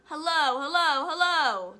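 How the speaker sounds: loud, high parrot call; high-pitched bird shout. Acted. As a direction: squawk it out like a talking bird. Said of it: "bird called down to her".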